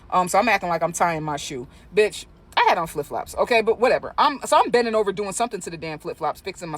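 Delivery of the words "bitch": ordinary talk, nothing marked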